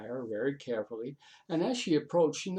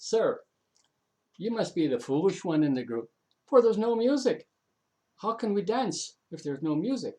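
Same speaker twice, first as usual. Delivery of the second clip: put-on raised, higher indignant girl's voice; indignant retort; 6 semitones higher, 7 dB louder than usual. Siobhan scolding the young man, indignant and loud. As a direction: scold him boldly, voice climbing.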